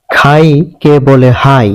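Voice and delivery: খাই said as হাই with an h sound; Chittagong dialect pronunciation. Shown as a demonstration. Teacher showing the Chittagong kh-to-h shift in হাই. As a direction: turn the kh of হাই into h. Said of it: "হয়ের মতো উচ্চারণ করে".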